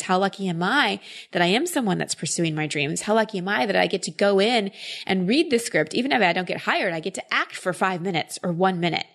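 excited gratitude. Acted. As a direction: act out a touch of thrilled gratitude. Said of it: "if you could be excited, more like".

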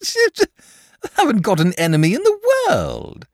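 high, loud, blithe dragon; cheerful. A narrator's reading. Dragon brushes off the boy's warning, cheerful. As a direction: sing out breezily, voice soaring. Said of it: "said the dragon cheerfully".

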